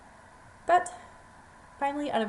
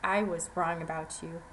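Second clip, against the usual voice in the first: humble thanks; 5 semitones lower than usual. Acted. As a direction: say it humbly, head bowed. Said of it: "he humbly looked down".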